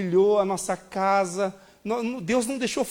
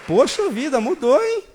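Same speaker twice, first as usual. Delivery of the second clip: impressed surprise; 5 semitones higher, 5 dB louder than usual. Retold or imitated. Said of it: "Ela falou".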